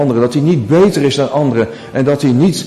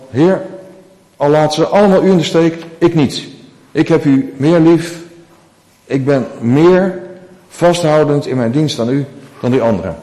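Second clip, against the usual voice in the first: bold Peter; 3 semitones higher than usual. Acted. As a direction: proclaim loyalty with confident swagger. Peter boasts he loves more.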